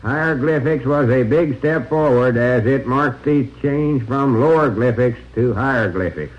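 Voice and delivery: steady droning tour guide; monotone voice. Pretend. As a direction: drone on like a dull museum guide. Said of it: "monotone voice".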